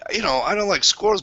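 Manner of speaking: high, airy put-on whisper; imitated squeamish girlfriend. Man mimicking his girlfriend turning down squirrel, squeamish high voice.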